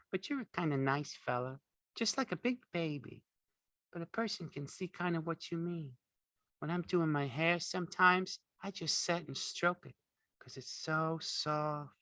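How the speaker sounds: put-on high, soft dreamy young woman; Curly's wife. A narrator's reading.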